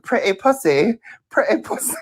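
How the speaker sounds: mock British accent, rising in pitch; mimicked British accent. Mocking her sister imitating Jack, put-on British accent. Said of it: "And she was like".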